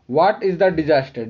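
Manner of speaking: very slow, clear read of the instruction; slow reading aloud. Shown as a demonstration. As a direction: dictate the instruction to the class. Reads question slowly. (बहुत धीमे पढ़ते हुए)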